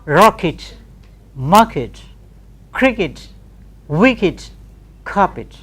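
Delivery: "rocket" "market" "cricket" "wicket" "carpet" ending in weak it; unstressed it endings. Shown as a demonstration. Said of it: "try to pronounce these words".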